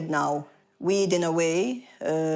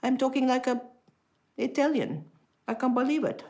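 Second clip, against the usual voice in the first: high, stunned disbelief; shocked realization; 8 semitones higher than usual. Retold or imitated. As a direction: gasp it out as the truth dawns. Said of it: "I say".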